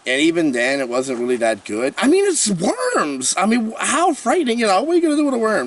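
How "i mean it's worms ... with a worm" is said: mock sarcasm. Real, not acted. Mocking a fearsome worm.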